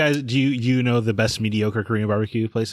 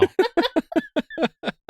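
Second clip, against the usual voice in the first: hyena laugh. Real, not acted. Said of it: "the hyena impression".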